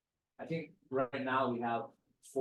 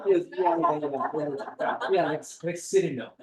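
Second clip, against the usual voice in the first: laughing agreement; 3 semitones higher, 7 dB louder than usual. Retold or imitated. VP laughing, confirming.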